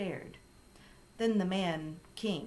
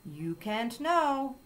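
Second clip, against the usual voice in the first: slow, higher British parrot imitation; mimicking the British parrot; 5 semitones higher, 4 dB louder, much slower than usual. A narrator's reading. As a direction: echo the parrot's drawn-out British phrase. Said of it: "we all said at the same time".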